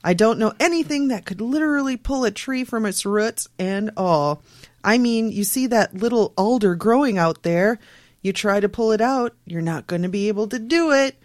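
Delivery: lightly put-on Canadian local accent; half-hearted Canadian witness voice; attempted Canadian accent. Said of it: "Is this your best Canadian accent?".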